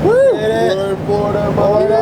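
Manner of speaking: excited. Real, not acted. Celebrating arrival in Florida.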